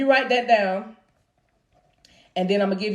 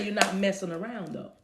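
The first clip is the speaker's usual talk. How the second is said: hushed spirit voice; 3 semitones lower, 13 dB quieter than usual. Retold or imitated. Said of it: "And I hear the Spirit say".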